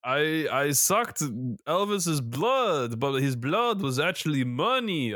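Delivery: Dracula voice. Acted. Playing Dracula while reading out podcast contacts, mock vampire voice. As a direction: ham up a jokey Dracula. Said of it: "I've just become Dracula".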